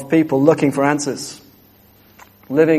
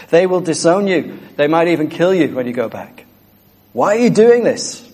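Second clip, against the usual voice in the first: higher, rising to an alarmed cry at the end; incredulous pleading; 3 semitones higher than usual. Retold or imitated. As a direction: plead with him in disbelief, then cry out. Friends challenging the convert.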